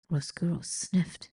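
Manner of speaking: hushed narration whisper. A narrator's reading. Narrator whispering the rat's sniff. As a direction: breathe it out softly.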